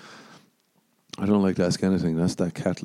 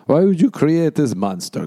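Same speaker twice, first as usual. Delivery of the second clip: mock lament; 8 semitones higher, 5 dB louder than usual. Acted lament to God.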